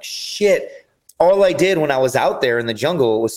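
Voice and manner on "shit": breathy whispered "shit" with a higher pitch; whispered curse. Retold or imitated. Retelling his dismay on finding the Liver King, a whispered curse. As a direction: let the curse slip out as a hushed whisper.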